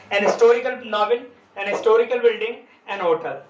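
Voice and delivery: "historical" and "hotel" without h, linked to "an"; silent H after an. Shown as a demonstration. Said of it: "प्रथम syllable पर जोर ना दिया जाए". (historical और hotel में ह छोड़कर an से जोड़ें)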